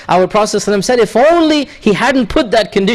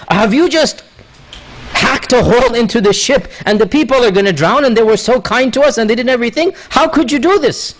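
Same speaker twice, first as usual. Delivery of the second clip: shocked outcry; 3 semitones higher than usual. Acted. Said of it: "And Musa is shocked".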